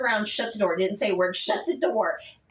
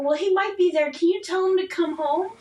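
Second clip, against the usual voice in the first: anxious request; 7 semitones higher, 4 dB louder than usual. Retold or imitated. Retold plea on phone.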